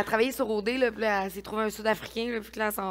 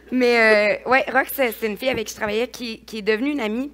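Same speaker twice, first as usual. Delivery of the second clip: crying; 2 semitones higher, 9 dB louder than usual. Real, not acted. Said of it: "je pleure de même".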